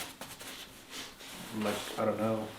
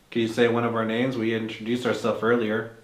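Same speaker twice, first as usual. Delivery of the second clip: calling out; 7 dB louder than usual. Real, not acted. Calling out to spirit.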